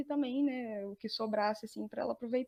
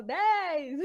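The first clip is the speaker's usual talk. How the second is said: slightly raised, mock call-out; retold group answer; 4 semitones higher, 4 dB louder than usual. Group answering the reporter on TV, lightly raised retold call. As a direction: call out the number as a group would. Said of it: "Aí a gente fala".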